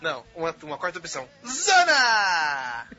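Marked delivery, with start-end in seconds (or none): 1.5-2.9 loud high shout. Acted. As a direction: yell it out as a punchline. Shouted punchline.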